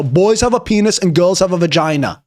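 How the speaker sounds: light mock Austrian accent; movie quote with an Austrian tinge; Arnold Schwarzenegger. Streamer quotes a film line for chat, mock Austrian accent. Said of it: "Kindergarten Cop".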